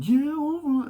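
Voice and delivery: put-on high, childish whine; sulky kid giving in; like a nine-year-old. Arguing adult whining like a nine-year-old. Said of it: "their voice goes like a nine-year-old".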